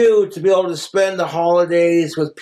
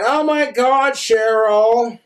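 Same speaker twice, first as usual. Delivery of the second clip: lightly mimicked gushing friends, higher start; gushing gal pals; 5 semitones higher than usual. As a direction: coo over the purse, stretching the ending. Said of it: "are all looking at her going".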